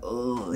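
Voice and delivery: soft groan of someone punched; imitated winded groan. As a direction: mimic doubling over from a gut punch. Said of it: "he just doubles over like".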